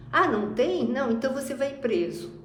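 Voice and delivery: loud, scornful threat; angry scorn. Retold or imitated. The servant threatens the man who owes him money, angry and loud. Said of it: "ele fica muito bravo".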